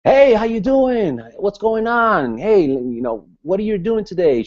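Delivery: high, slow, hammed-up hearty hello; big booming over-eager welcome; fired-up greeting. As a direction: greet like a pumped-up networker. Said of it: "I wasn't this kind of person that just".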